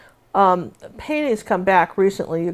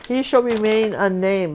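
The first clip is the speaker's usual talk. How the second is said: mock solemn pronouncement; slower than usual. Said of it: "How's that?".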